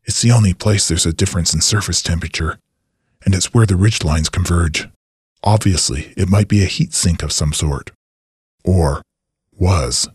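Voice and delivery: put-on slightly low older man's voice, touch of impatience; mildly irritated. A narrator's reading. Old scientist answers his assistant's doubt, mildly irritated. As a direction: explain it with understated irritation. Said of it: "irritated Fath replied".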